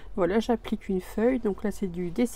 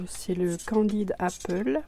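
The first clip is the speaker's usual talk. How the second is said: color name in a light English accent. Real, not acted. Crafter reading paint names in an English accent. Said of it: "ne faites pas attention à mon accent anglais".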